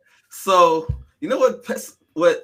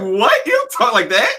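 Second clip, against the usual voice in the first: mock white voice; 8 semitones higher, 3 dB louder than usual. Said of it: "use their white voices".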